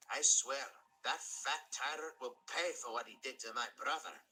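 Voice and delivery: a Scottish brogue with a bitter vow; Scottish engine vowing revenge on the tyrant; vengeful Scottish engine. Acted.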